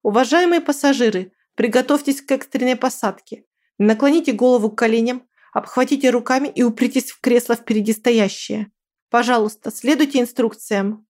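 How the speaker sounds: worried announcement over the speakers; flight attendant announcement. Acted. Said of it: "раздался её взволнованный голос".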